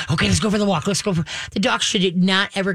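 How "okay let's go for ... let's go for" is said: eager, bouncy call to the dog; a lively, hurried "let's go for the walk"; revved-up excitement. Shown as a demonstration. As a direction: get them wound up to go out. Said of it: "they're revved up".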